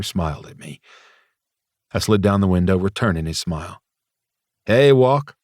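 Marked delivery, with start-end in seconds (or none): 4.7-5.4 eager greeting. Acted. Flirty greeting to his crush.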